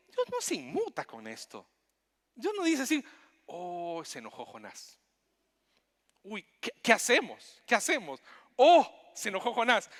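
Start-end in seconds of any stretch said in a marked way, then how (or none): 3.5-9.9 hammed-up alarm, high with loud bursts; mock panic. Preacher mocking a panicked God over angry Jonah. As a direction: play a God flustered and fretting.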